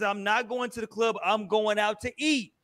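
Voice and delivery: toned-down retelling. Retold or imitated. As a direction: retell her answer low-key and soft. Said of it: "That's not how she said it".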